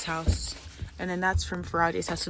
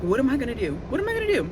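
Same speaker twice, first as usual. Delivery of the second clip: mock panic; 6 semitones higher, 6 dB louder, much faster than usual. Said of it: "I was like".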